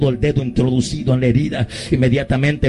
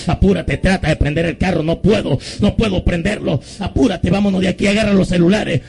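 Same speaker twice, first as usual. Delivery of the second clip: higher, urgent re-enacted exchange; retold panic; 6 semitones higher than usual. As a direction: imitate youths hurrying to get away. Acted frantic exchange of fleeing youths.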